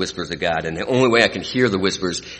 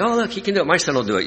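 high-pitched imitation of an eager mom; hopeful mom; 10 semitones higher, much faster than usual. Al-Anon moms pinning hopes on the recovering speaker, high mock-hopeful voice.

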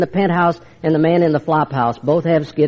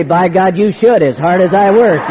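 indignant; 4 dB louder than usual. Retold or imitated. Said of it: "I'd really go into my routine".

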